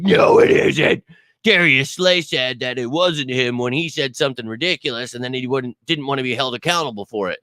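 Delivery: hammed-up whiny naysayer; mocking critics. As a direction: sneer out the doubters' protest. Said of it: "And they're like".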